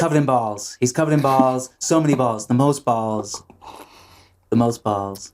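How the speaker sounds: lightly parodied presidential hype; Donald Trump impression. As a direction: sell it in repeated superlatives. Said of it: "That's my Donald Trump impression".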